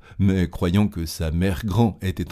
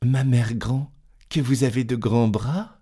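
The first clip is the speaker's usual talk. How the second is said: put-on little girl voice; slower than usual. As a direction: ask in growing wonder. Girl questions the grandmother.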